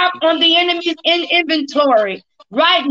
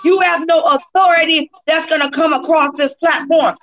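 laying a curse. Real, not acted. Casting out the enemy.

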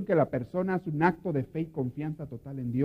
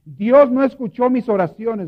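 loud, slow, higher lament; grieving complaint; 7 semitones higher, 11 dB louder, slower than usual. Retold or imitated. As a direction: cry it out like a bereaved sister. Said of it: "me dice ella". (queja dolida, fuerte y lenta)

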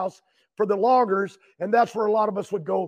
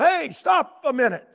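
higher-pitched mock call-out; retold yell; 4 semitones higher than usual. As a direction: imitate hailing a passing driver, not full volume. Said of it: "And I yelled".

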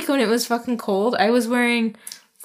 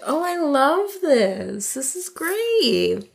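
mock dreamy delight; 6 semitones higher, much slower than usual. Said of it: "Suddenly she's like".

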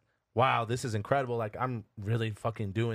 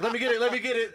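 imitated urgent plea; 9 semitones higher, 3 dB louder, much faster than usual. Instructor grabs control as they flip.

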